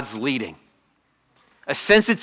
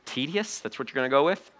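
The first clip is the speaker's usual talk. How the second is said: incredulous; 9 dB quieter than usual. Retold or imitated. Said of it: "And you're like".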